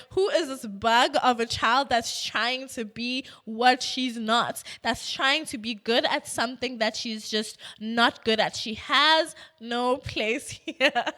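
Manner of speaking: mock-indignant teacher, leaning on key words; annoyed teacher. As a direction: imitate an irritated coach's complaint. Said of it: "She's just annoyed".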